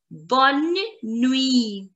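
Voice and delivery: bonne nuit with the final T silent. Shown as a demonstration. Teacher introduces the French good night, nuit with silent T. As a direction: say bonne nuit, ending on the ee sound. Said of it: "T is going to be silent".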